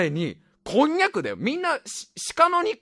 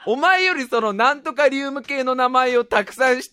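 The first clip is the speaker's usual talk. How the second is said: louder, laughing half-shout at the doubter; mock scolding rant; 7 semitones higher, 5 dB louder than usual. Scolding the doubter who knows fewer element names, laughing half-shout. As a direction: tell him off, cracking up.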